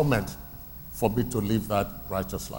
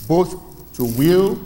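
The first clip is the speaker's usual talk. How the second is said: preached loud; 7 semitones higher, 7 dB louder, slower than usual. Shown as a demonstration. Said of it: "preaching a verse".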